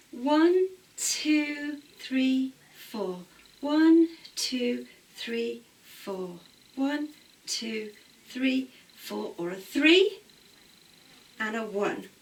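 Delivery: rhythmic counting with accented ones; dance class count. Shown as a demonstration. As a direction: call the counts in tempo. Teacher counting the double accent.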